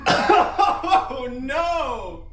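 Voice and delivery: high pained shout. Real, not acted. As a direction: yell out in pain. Reacting to hot sauce.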